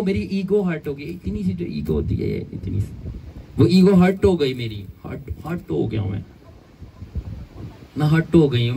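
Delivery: lightly hammed-up offended churchgoer; mock wounded ego. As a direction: pout it like your ego got bruised. Mocks a proud hurt person.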